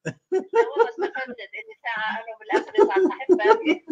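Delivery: high, loud protest through laughter; laughing complaint. Real, not acted. Contestant jokes about winning only okra, laughing protest. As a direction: laugh helplessly while moaning about the prize.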